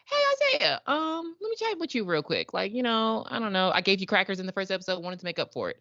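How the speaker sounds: breezy and casual, high; mock Nora. Suggesting what Nora should say, in a high casual mock voice.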